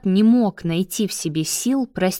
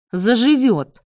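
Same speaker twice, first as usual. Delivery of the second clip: a dismissive snort of a reply, higher and a bit louder; smirking; 4 semitones higher, 4 dB louder than usual. Acted. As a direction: brush it off with a scoff. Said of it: "хмыкнул Давид". (пренебрежительно хмыкнул)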